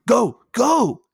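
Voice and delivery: high, loud gamer yelling; yelling at the game. Retold or imitated. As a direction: shout at the screen in frustration. Brother yelling at video game.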